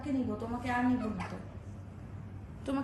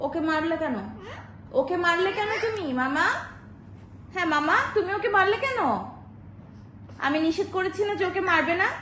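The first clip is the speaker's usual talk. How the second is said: louder and higher, playful telling-off; mock scolding; 4 semitones higher, 4 dB louder than usual. Aunt scolding the toddler for hitting, mock stern. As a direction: scold the toddler half in fun.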